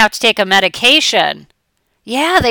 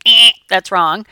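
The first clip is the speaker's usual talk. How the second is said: dismissive eh; 6 dB louder than usual. Retold or imitated. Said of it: "I'm saying".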